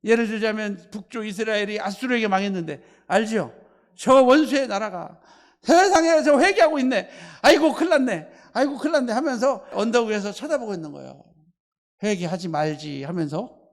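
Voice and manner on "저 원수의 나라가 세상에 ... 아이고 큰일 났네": Jonah lamenting. Retold or imitated. Jonah dismayed at repentance.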